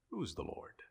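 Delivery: very soft, almost under the breath; hushed refrain. Acted. Preacher echoing the unrepentant heart, hushed. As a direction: drop right down to a near-silent murmur.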